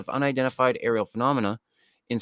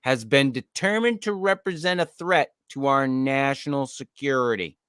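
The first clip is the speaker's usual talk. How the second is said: official announcer read; 5 semitones higher than usual. Acted. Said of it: "the memo flatly states".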